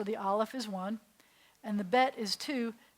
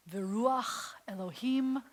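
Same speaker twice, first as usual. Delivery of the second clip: whisper; slower than usual. Shown as a demonstration. Reading Genesis in hushed awe.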